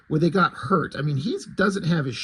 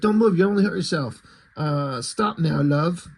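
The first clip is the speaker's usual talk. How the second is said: mock British butler. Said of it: "this is what Alfred's gotta sound like".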